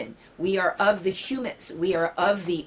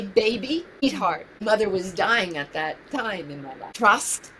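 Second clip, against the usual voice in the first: tender, tearful; 2 semitones higher than usual. Real, not acted. Tender advice to her younger self.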